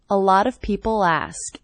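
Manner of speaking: "people ask" with the L gliding into "ask"; linked L. Shown as a demonstration. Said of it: "that L as really linking".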